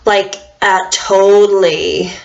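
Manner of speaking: put-on slow "totally" in an American valley-girl voice; hint of a Californian valley-girl accent. Shown as a demonstration. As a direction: drop into a lazy valley-girl drawl, fading out. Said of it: "You would have to go".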